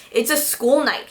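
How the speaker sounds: "It's a school night" in a light mock sing-song. Boyfriend mocks his girlfriend's "It's a school night", lightly mocking. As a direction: echo "It's a school night" to tease her. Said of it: "he mocks me".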